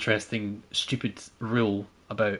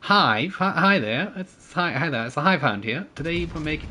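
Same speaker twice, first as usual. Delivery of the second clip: lilting, higher-pitched Welsh accent turning posh; bad Welsh accent that slips into posh Scots; Welsh attempt gone posh; 4 semitones higher than usual. Shown as a demonstration. Streamer greeting viewers in a failed, posh-sounding Welsh accent. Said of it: "no, I sounded posh".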